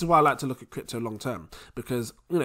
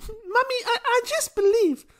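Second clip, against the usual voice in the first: put-on much higher, nervous little-boy voice with a giggle. Son answering his Nigerian mum, high and nervous. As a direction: squeak like a cornered child.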